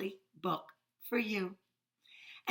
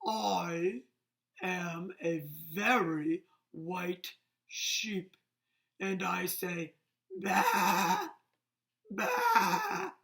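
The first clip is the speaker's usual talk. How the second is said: slow, lightly voiced dopey sheep; a hint of a sheep for kids; 3 semitones lower, much slower than usual. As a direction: drawl it out like a sleepy sheep, ending on a bleat. Reading a sheep's lines.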